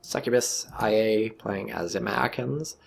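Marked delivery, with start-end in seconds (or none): 1.3-2.8 light mock German accent. Shoutcaster introducing the American player, in a light German accent. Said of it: "said that in a German accent".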